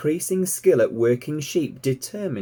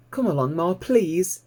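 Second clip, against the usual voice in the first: put-on high, bright young piglet voice, thrilled; piglet Babe, delighted; 7 semitones higher than usual. A narrator's reading. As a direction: squeal it out like an excited little pig. Babe coaxes Ma.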